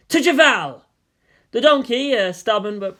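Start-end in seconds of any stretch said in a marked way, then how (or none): 0.1-0.8 loud, high rallying shout; exuberant cry. A narrator's reading. Rider spurs the donkey with an exuberant shout. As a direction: cheer the journey on. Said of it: "hearing the exuberance of its rider".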